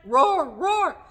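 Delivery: two loud sung-out roars; lion roars. Shown as a demonstration. Teacher leading lion verse, loud rhythmic roars. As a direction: roar twice on the beat. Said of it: "hear the lions roaring".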